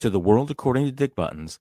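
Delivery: low, soft and grumpy, already fed up; bad mood. Real, not acted. Host warning listeners of a rant, grumpy and low. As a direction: grumble it out, sour before the rant starts. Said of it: "as you could hear from the tone in my voice".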